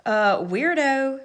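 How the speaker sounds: drawn-out taunting call, slow; mock shout. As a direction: call him out across the playground. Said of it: "shouted Angela".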